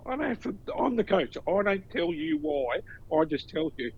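high-pitched retold rebuff; mock exasperation. Acted coach rebuffing a complaining player.

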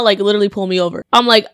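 ordinary talk

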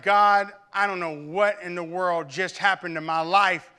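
put-on reliving a grieving teen yelling at God; anguished cry to God. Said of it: "And I was like".

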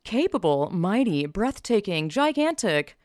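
reading marketing buzzwords like an overexcited ad; mock ad hype. Vlogger mocking Apple's product words in hyped ad voice. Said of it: "that they use for the products".

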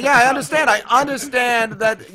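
put-on high sing-song baby talk. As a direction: coo it like to a toddler. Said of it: "you gotta say it in that baby talk voice".

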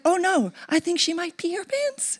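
high, laughing quote; laughter trailing after; laughing through words. Retold or imitated. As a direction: giggle through the punchline. Friend's reaction, laughing.

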